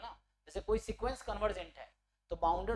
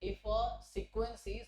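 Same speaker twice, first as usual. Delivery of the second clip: slow dictation; much slower than usual. Real, not acted. Dictates while writing a remark.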